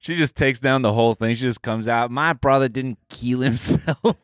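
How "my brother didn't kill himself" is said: slow mock-Aussie declaration; drawn-out hammed-up Aussie; Australian accent. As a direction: insist firmly in a put-on Australian accent. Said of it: "the Aussie accent's a tough one".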